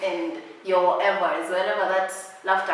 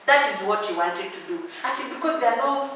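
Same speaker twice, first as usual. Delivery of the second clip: mock scolding; 4 dB louder than usual. Scolding the absent suitor.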